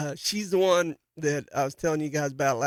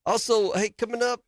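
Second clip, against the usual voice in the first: higher, eager promo read of "coming up"; first take; 5 semitones higher than usual. Shown as a demonstration. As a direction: pitch "coming up" high and lively. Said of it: "let me redo that".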